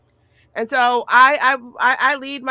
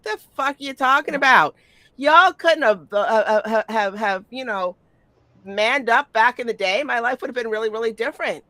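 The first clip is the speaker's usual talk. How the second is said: exasperated retort; 3 semitones higher, 3 dB louder than usual. Retold or imitated. Retorting to old admirers.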